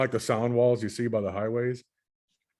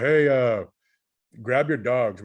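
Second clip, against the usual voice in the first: yelling up the stairs; 2 semitones higher, 4 dB louder, slower than usual. Retold or imitated. Man yelling up the stairs for the lady to grab her dogs, raised voice. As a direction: call up the stairs, louder on the hey. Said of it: "I was yelling up the".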